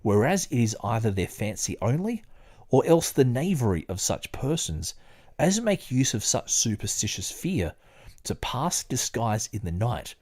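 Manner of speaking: measured book reading, lightly performed; reading aloud. Acted. Reading the book aloud to a friend, in a lightly performed, measured voice. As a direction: read the old text steadily, like a study session.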